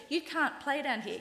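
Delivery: playground bully. Retold or imitated. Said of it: "That's how playground bullies talk".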